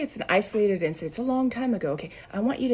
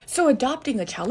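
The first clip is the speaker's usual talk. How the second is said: emphatic; 5 semitones higher, 4 dB louder than usual. Real, not acted. Teacher stressing a point.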